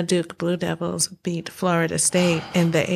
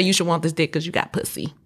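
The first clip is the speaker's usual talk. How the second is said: fast, casual retelling of a come-on; quick slangy imitation of a suitor; corrected blunt quote; 4 dB quieter, faster than usual. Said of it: "Sorry, he said".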